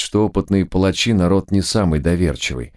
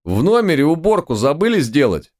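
much higher indignant outburst; 10 semitones higher than usual. A narrator's reading. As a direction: squeal it out in protest. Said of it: "возмутился товарищ".

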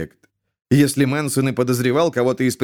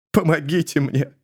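1 through tears; 2 semitones higher than usual. A narrator's reading. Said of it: "выдавил сквозь слёзы".

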